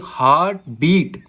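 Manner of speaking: हार्ट बीट with equal weight on each; stress on both syllables. Shown as a demonstration. Teacher giving a spondee example, हार्ट बीट evenly stressed. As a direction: lean on हार्ट and on बीट alike. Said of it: "इन दोनों को हम जोर दे के बोलेंगे".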